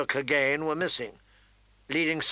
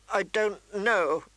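put-on slow, high, tearful girl; pitched-up tearful helplessness; 7 semitones higher, slower than usual. A narrator's reading. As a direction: falter slowly, near tears. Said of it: "she said tearfully".

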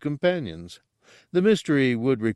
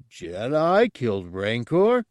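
amazed creature voice; 2 semitones higher, 3 dB louder than usual. Acted. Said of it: "Gartog repeated".

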